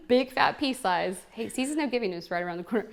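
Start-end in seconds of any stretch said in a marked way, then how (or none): 0.1-1.2 "Big fat pea size." drawn out slowly, each word spaced; slow, deliberate instruction. Shown as a demonstration. Demonstrating a product to party guests, slow careful instruction. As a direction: spell out the amount slowly so it sticks. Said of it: "shows the dose to the audience".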